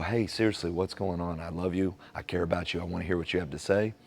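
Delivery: reassuring a partner that you want to hear; gentle caring ask. Acted. Asking partner with love.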